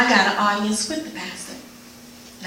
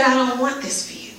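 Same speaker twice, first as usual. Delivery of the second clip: gentle pleading, a bit higher; 3 semitones higher than usual. Retold or imitated. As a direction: plead tenderly, almost begging. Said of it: "he was pleading with me".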